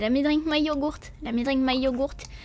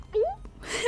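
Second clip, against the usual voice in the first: short, high, soft gulp; gulping noise; 13 semitones higher, 6 dB quieter than usual. Shown as a demonstration. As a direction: demonstrate a little high-pitched gulp. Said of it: "I gulp a lot, like".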